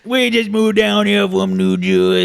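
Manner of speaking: high, nasal Jersey whine; New Jersey accent. Acted. Newcomer repeating the move from Jersey, nasal New Jersey accent. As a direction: lay on broad Jersey vowels. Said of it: "The Jersey accent".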